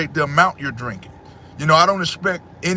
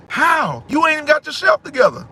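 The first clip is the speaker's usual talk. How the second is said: exasperated outburst; 10 semitones higher than usual. Real, not acted. Scolding people who put family first.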